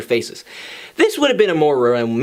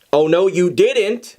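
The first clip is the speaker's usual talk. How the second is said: mock offended; slower than usual. Sun offended by breadstick insult.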